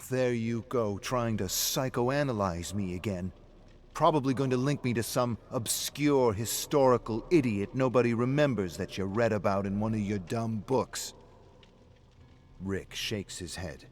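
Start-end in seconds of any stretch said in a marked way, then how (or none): 0.1-11.1 loud, bitter mockery of his friend; a drunk man sneering at his friend's books; angry. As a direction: lash out at the know-it-all.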